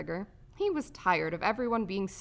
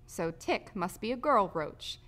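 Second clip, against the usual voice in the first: plain reading voice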